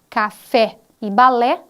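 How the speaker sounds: café e balé, each word said slowly and set apart; teacher to viewers, spelling out a rhyming pair slowly; slow example words. Shown as a demonstration.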